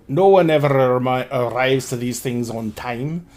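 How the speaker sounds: low, soft character voice; Tuck. Acted. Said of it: "Tuck says".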